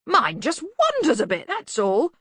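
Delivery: high, loud and hearty; hearty bluster. Acted. Arch-Chancellor explaining away the bursar's state, loud bluster. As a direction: brush it off at volume. Ridcully talking loudly about the bursar.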